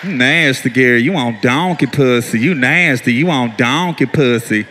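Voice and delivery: low, slow, calm wife taunt; wife's low calm taunt. Retold or imitated. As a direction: calmly chant it low and slow. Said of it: "she was remaining calm".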